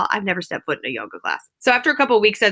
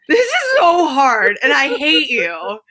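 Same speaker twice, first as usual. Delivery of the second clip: high, louder, hammed-up despair; mock anguish to a friend mid-pose; dramatic whine; 7 semitones higher, 5 dB louder than usual. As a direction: overdo the suffering for a laugh. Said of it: "I'm very dramatic".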